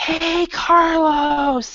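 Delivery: very loud, high shout, one word drawn out. Explaining the word shout with an example, calling out to Carlos: yelling very loud. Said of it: "you're trying to yell very loud".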